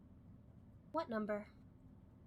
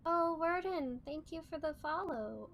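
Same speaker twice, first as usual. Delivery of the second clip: excited; 6 semitones higher, 4 dB louder than usual. Real, not acted. Spots new follower.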